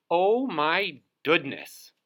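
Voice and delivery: a shocked little bird; high astonished bird; Dovekie Lovekie's voice. Acted. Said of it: "said Dovekie Lovekie".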